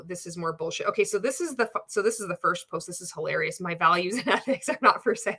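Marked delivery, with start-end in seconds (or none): 3.6-5.3 reading the quote aloud, a laugh breaking through mid-line; can't keep a straight face reading it; laughing while reading. Real, not acted. Reading the coach's slogan to viewers, laughing through it.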